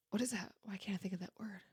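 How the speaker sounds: whispered to herself searching for a word. Real, not acted. Host forgetting a word, whispering to herself. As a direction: mutter it to yourself, unvoiced. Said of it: "groping for a word".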